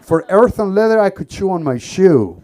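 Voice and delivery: outraged rant. Retold or imitated. Outraged at wine price.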